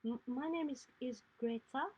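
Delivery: put-on a nervous girl trying to smile; timid child giving her name; nervous little girl. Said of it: "she smiles nervously up at you and she says".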